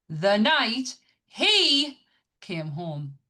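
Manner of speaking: screamed, very slow and high on the first words; all caps shouting. Shown as a demonstration. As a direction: yell it like it's written in capitals. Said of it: "I'm gonna say this, how it looks".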